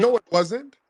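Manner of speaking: loud, high contradiction; insistent denial. Real, not acted. Host repeatedly contradicts the caller.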